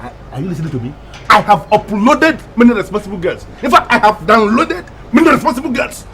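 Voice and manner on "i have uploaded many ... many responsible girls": high-pitched indignant boasting; worked-up, scornful tirade; indignant argument. Acted. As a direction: argue it hotly, rising to a shout. Acted quarrel, boasting and berating.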